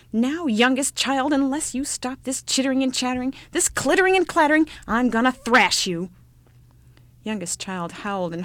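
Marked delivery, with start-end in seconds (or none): 0.1-6.1 in a rage. Acted. Star Mother threatening her whining child, angry. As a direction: lay down the law, fuming. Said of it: "in a rage".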